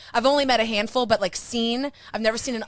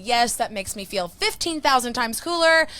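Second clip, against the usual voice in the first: ordinary talk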